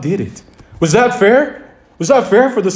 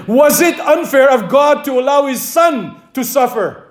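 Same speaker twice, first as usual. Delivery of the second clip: raised, challenging question to the congregation; preaching shout; 5 semitones higher than usual. Real, not acted. Preacher challenging his congregation with a raised shout. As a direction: hurl the question at the pews.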